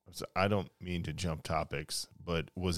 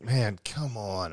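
slow, drawn-out exasperated quote; mock complaint; 3 semitones higher, much slower than usual. Dad bummed about delayed return to work, mock complaint. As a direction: drag it out like a bummed protest.

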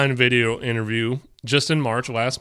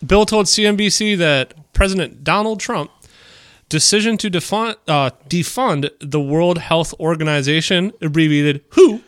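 nerdy voice. Acted. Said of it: "still working on the nerdy voice".

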